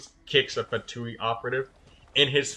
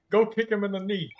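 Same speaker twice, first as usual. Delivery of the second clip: command; 8 semitones higher than usual. Real, not acted. Commanding character in game.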